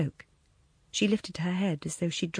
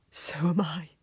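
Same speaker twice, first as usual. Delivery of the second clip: gentle laugh; 3 semitones lower than usual. A narrator's reading. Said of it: "he laughed gently".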